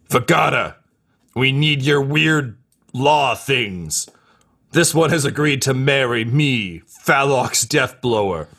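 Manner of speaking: a hammed-up warrior calling for his bride; Phalox announcing. Phalox asks Vagata to marry them, hammed-up pomp.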